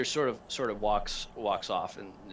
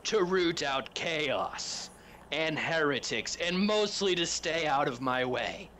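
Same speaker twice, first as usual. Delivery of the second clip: a commander tearing into his team at full volume; furious Inquisitor; 6 semitones higher than usual. Acted. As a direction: chew out your subordinates. Inquisitor berates his acolytes.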